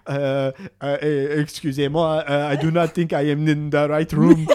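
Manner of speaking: hesitant, lightly hammed-up French accent; mock French accent, feeling his way. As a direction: stammer politely in a put-on French accent. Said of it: "This French guy".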